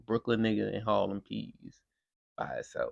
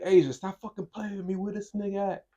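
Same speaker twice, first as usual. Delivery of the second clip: higher mom voice scolding her daughter; a hint of an angry mom, pitched up; 10 semitones higher than usual. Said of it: "the mom was a mad New York hood bitch".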